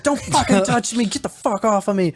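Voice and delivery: laying down the law. Retold or imitated. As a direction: imitate a fed-up manager fending someone off. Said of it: "laying down the fucking hammer".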